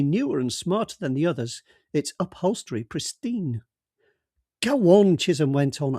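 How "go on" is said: a hearty call, clearly higher and louder; a breezy senior detective waving him over; jovial boss calling out. Acted. Chisholm voiced in the story.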